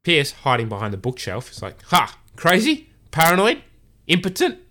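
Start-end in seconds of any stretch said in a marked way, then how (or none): 1.8-4.6 louder, higher, offended outburst; indignant outburst. Retold or imitated. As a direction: pop out and fire back each word. Pierce bursts out from hiding.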